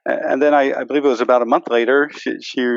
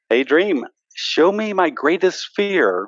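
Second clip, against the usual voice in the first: higher, slow, deliberate command; retold announcement; 6 semitones higher, slower than usual. Lucid dreamer addresses the dream, slow announcing. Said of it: "she announces".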